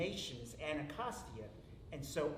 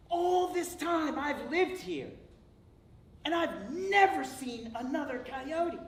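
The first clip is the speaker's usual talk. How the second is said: high, slow wondering voice; amazed coyote; 10 semitones higher, 7 dB louder, slower than usual. Acted. First coyote meets another coyote, high slow amazement. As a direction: marvel like you've never seen your own kind.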